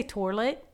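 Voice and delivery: "toilet" with an r, like "torlet"; old local pronunciation. Shown as a demonstration. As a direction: say "toilet" as "tor-let". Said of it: "I used to say".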